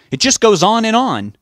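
very high, loud exasperation; yelling back. A narrator's reading. Richard protests to his wife, yelling back. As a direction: cry it out in frustrated protest. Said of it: "Richard yelled back".

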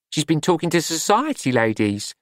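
astonishment. A narrator's reading. Glenda hears Juliet met society ladies, astonished. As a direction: gasp it out in disbelief. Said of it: "in astonishment".

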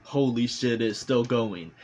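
"Holy shit" a bit livelier, with growing disbelief; mild mock amazement. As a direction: lean into "Holy shit, it's still going" as if it won't end. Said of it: "And then I was like".

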